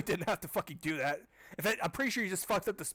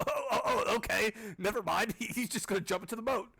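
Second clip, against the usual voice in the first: high amused laughter through words; real giggling disbelief; laughing; 6 semitones higher than usual. Real, not acted. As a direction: laugh at the absurd twist. Laughing at the twist.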